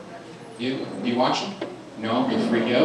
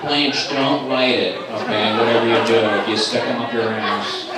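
mock serious; 2 semitones lower than usual. Mock-serious warning to Blanche.

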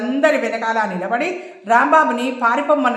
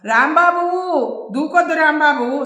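raised, calling out to him from a distance; a pleading yell so he won't jump; shouting to stop him; 4 semitones higher than usual. Acted. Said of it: "Saroja గట్టిగా అరిచింది". (గట్టిగా అరుస్తూ ఆపమని వేడుకోలు)

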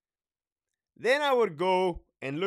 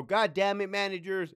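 mildly raised, higher scolding voice; 5 semitones higher than usual. Pretend. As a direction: dress down the managers in a raised tone. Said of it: "I would even raise my tone".

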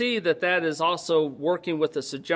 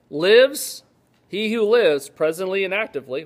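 raised, louder teaching emphasis; emphatic scripture reading; 4 semitones higher, 6 dB louder than usual. Acted. Preacher expounding a verse to the congregation, emphatic. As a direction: lean hard on each quoted word.

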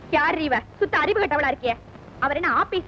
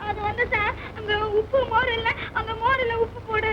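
crying; 3 semitones higher than usual. Acted. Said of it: "ஏன் அழற?".

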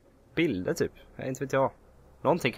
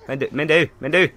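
exasperated; 4 semitones higher, 5 dB louder than usual. Real, not acted. Scolding game enemy.

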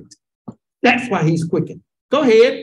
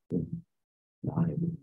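stubborn refusal; 5 semitones lower, 14 dB quieter, much slower than usual. Retold or imitated. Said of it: "that little old stubborn".

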